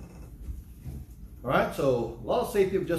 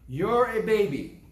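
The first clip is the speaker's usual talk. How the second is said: slow, loud, higher chant for the congregation to repeat; call and response; 5 semitones higher, 4 dB louder, slower than usual. Real, not acted. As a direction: lead the crowd in the line. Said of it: "Say with me".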